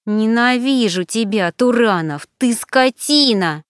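angry. Acted. Alina insults him angrily.

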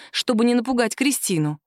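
ordinary delivery

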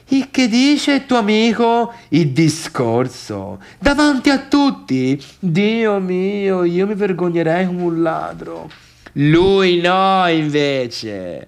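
high, appalled gasp of disbelief; mock shocked. Friend imagines the speech, mock horrified. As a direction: act scandalized at the idea.

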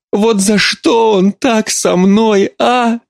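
high, slow, tearful plea; sobbing. Acted. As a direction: weep the question. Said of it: "всхлипнула мать".

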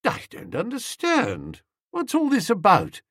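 mock bewilderment to Aunt Dahlia; feigned puzzlement. A narrator's reading. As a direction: play the innocent, eyebrows up. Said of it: "raising the eyebrows".

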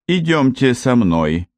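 calm her down gently; gentle. Acted. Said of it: "мягко произнесла женщина".

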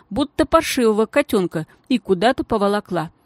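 ordinary delivery, nothing marked

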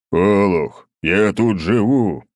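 loud, slow booming rebuke; thundering rebuke. A narrator's reading. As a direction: boom at the fool. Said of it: "прогремел Толстой". (громовым голосом, медленно и громко)

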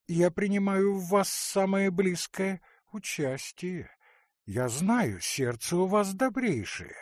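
fussy aunt pressing her case; earnest aunt pleading. Acted. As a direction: coax her cousin into forgiving. Marya pleads with her cousin.

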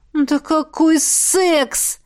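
slow exasperated groan. A narrator's reading. Miranda groaning at Jaf's accusation, slow and exasperated. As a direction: draw it out in weary exasperation. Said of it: "простонала Миранда".

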